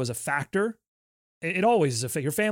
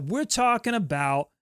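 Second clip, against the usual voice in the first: Allen Iverson riff; slower than usual. Retold or imitated. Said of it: "I feel like Allen Iverson".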